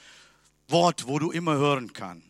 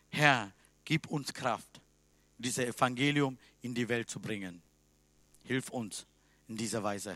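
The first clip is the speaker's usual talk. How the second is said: closing prayer; 2 semitones lower than usual. Acted. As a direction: pray humbly aloud for the church.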